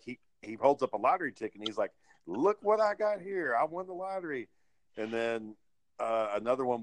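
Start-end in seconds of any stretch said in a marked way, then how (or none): 2.3-4.5 gloating winner. Retold or imitated. Officer boasting with lottery ticket.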